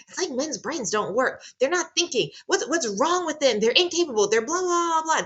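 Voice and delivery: high, mocking whine about men's brains; mock exasperated complaint. Mocking what a lot of us say about men, high exasperated whine.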